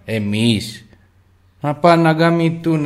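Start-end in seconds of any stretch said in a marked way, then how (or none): 1.6-2.9 higher, louder curse at the casinos; angry outburst. Real, not acted. Streamer cursing casinos to his viewers, angry. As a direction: spit the curse out in anger. Ranting against casino promoters.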